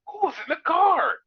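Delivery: high, loud shouted question; mock yell. Fan mocking the commentator's question, shouting. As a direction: yell it in disbelief. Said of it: "It's like".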